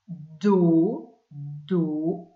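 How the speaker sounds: "do" held long, each one set apart; stretched syllable. Shown as a demonstration. Teacher sounding out the second syllable, stretched syllable. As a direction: draw out "do" as a separate sound. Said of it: "pour faire le son do".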